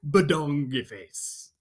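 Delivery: loud, high nonsense babble, slow at the start; over-the-top nonsense sounds for a kid; silly sounds. Acted. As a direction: go full goofy on the gibberish. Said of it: "make silly sounds".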